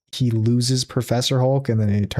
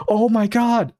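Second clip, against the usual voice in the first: mock gasp; 9 semitones higher, slower than usual. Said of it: "Dororo tries flying over and goes".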